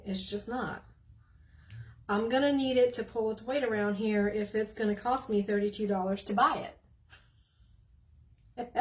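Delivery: lively, folksy Southern accent; real Southern. Real, not acted. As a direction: let the Southern accent all out. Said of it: "I did get real Southern there".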